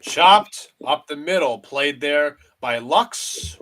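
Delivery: announcer calls a grounder fielded by Lux; excited call. Acted. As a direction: lift the voice on the chopper. Big play called live.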